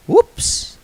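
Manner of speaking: very high fake oops; mock innocent whoops. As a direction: feign surprise sweetly.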